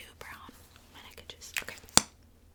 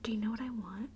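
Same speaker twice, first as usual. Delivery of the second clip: a whisper that slips louder; 2 semitones lower, 7 dB louder than usual. Real, not acted. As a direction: whisper pushed too loud. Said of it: "Sorry, it's hard to whisper".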